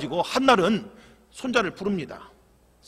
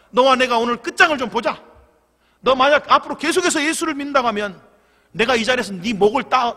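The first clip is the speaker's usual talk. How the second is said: angry grandfather; 4 dB louder than usual. Acted.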